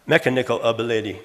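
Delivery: a second wrong-stress take of "Mechanical ability"; misplaced stress. Shown as a demonstration. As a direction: run it quickly with the stress moved off the second syllable. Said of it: "remove that accent".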